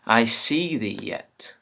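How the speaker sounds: slow, measured recital; unhurried Shakespeare line at conversational volume; verse reading. Acted. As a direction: read the verse out deliberately. Rereads the verse line slowly.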